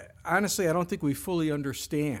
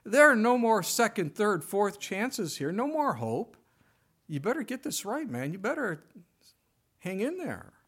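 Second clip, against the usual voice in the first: higher-pitched, exasperated scolding, half-hearted; mock stern ultimatum; 5 semitones higher than usual. Imagined Jesus threatening Peter, mock exasperated and higher. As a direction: play a fed-up boss giving a last warning, lightly mocked. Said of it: "He didn't say".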